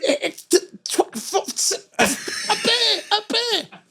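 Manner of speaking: high, stuttering fluster; nervous stammering. Retold or imitated. The narrator to the buyer, stammering nervously, high. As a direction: stumble over the lie.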